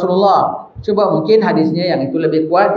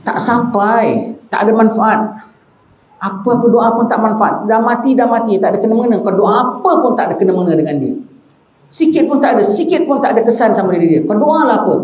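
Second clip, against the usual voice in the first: lightly voiced scoffing rival, pitched higher; mock opponent; 5 semitones higher than usual. Preacher's friend mocking a rival's creed, pitched higher and scoffing. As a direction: brush off prayer for the dead, higher. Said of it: "Dia jumpa orang pahaman gini".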